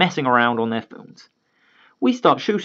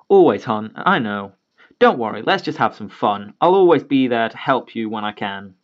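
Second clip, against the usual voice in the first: comforting dad; 3 semitones lower than usual. Retold or imitated.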